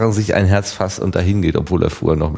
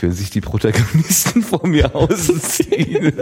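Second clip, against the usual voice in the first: quoting a friend while laughing; giggling through a remembered remark; laughing through quote; 10 semitones higher than usual. Retold or imitated. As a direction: laugh through the words, higher.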